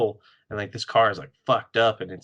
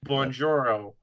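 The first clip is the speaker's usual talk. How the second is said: mock Italian accent; 2 semitones higher, slower than usual. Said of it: "Wolverine ... tries to speak a different language".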